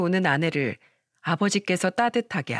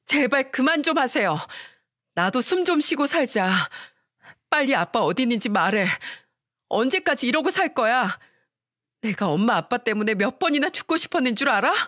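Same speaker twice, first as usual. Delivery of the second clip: higher, pleading angry outburst; a daughter finally snapping at her mother; angry shout; 5 semitones higher than usual. Acted. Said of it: "화를 내면서 소리쳤어요". (화내며 높게 소리침)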